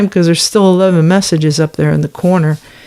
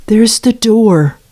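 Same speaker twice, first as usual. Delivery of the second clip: higher, slow, pointed "There's the door"; pointed dismissal; 4 semitones higher, slower than usual. Real, not acted. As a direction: show him out, each word drawn out. Repeats the dismissal twice.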